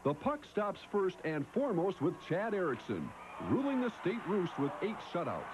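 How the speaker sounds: punchy scripted read with swooping pitch; sports promo voice-over. Acted. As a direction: hype the tournament preview in measured phrases. Scripted voice-over for tournament preview.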